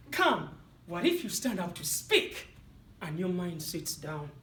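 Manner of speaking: anxious doubting inner critic, slowing; nagging inner voice. Retold or imitated. Night before his seminar, anxious inner critic. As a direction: worry aloud as the inner critic. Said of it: "negative self-talk kicked in".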